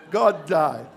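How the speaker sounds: hammed-up sobbing wife; mock lady crying. Shown as a demonstration. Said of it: "you know how the ladies cry".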